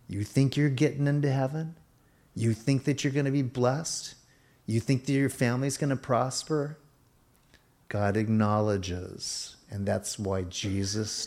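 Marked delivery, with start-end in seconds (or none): 0.1-6.8 higher-pitched, doubting questions; lightly mock the listener's hopes in question after question; taunting enemy. The enemy casting doubt on a believer, lightly taunting. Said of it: "the enemy will whisper to you".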